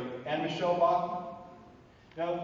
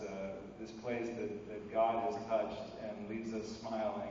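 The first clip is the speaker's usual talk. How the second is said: lower, softer, sincere voice; gentle, reflective sign-off; heartfelt closing; 3 semitones lower, 3 dB quieter than usual. Real, not acted. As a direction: wind down into a quiet, earnest appeal. Heartfelt closing appeal for optimism.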